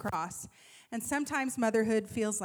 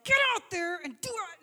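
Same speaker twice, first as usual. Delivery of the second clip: retold yell, higher and louder; screaming at her; 5 semitones higher, 5 dB louder than usual. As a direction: yell it like a fed-up cheer mom. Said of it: "if this is screaming at her".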